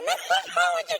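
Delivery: imitating a yell. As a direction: retell his yell with a laugh. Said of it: "He screamed at me like that one time".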